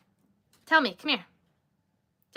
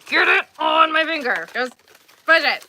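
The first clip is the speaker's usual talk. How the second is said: retold yell; 6 semitones higher, 8 dB louder than usual. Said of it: "I was like".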